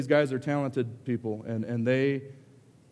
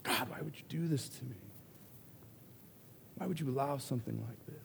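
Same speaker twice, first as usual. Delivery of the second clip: put-on whiny man child; 13 dB quieter than usual. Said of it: "I sound like a big baby".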